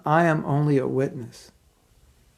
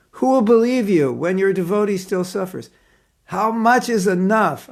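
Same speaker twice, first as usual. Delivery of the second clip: raised, higher pleading plea to Krishna; crying out, pleading; 5 semitones higher than usual. Retold or imitated. Devotee pleading with Krishna at a friend's deathbed, high and urgent. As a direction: beg Krishna to help, half-angry. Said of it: "I was crying out to the point of pleading".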